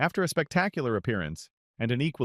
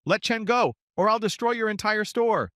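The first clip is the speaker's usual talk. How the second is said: high, louder threatening yell; 13 semitones higher, 3 dB louder than usual. A narrator's reading. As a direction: yell the threat across the store. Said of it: "ran into the store and yelled".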